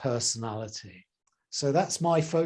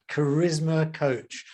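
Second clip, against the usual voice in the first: charisma with the emphasis on the middle syllable, RIS; slow charisma coach, leaning on RIS in charisma; stress on charisma's RIS; 2 semitones higher than usual. Shown as a demonstration. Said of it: "I put the emphasis on the ears".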